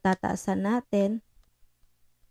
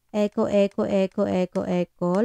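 word repeated through an echo effect; echo test. Shown as a demonstration. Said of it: "echo tayo". (boses na may echo)

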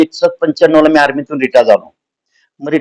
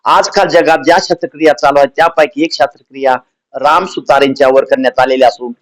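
a hint of a formal radio announcer; mock radio news. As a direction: read the joke bulletin like All India Radio news. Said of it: "विनोदी आकाशी समाचार आहेत".

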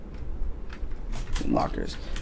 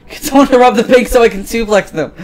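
high-pitched, raised voice; eager demand; 8 semitones higher, 7 dB louder than usual. Acted. Bored police chief wanting a bank robbery, high eager demand. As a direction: push the wild idea, pitched up but short of a shout.

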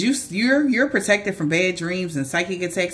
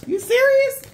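sneering protector; 2 semitones higher, 3 dB louder than usual. Retold or imitated. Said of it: "They said".

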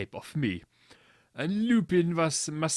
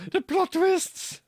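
laughing; 4 dB louder, slower than usual. Real, not acted. Reader laughing at the story.

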